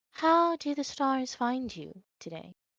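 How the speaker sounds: serene, very calm, faintly eerie tone. Storyteller voicing a woman who greets you with a small nod, calm. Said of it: "but she's very calm".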